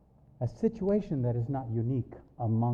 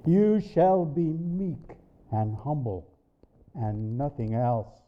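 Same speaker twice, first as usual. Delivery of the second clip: firm, penetrating command; slower than usual. Retold or imitated. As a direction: drive the command home slowly. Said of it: "firm and penetrating my very soul".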